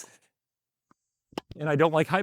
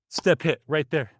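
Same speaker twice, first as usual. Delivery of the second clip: rhythm demo; slower than usual. Shown as a demonstration. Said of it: "My rhythm is the same".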